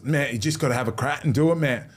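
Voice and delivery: imitated accent, urging a mate on; Jimmy Graham. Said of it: "That was a good accent".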